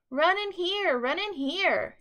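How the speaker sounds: high, loud luring call; sly call. A narrator's reading. Hungry fox calling the frightened friends in. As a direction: call them in eagerly. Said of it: "he screamed".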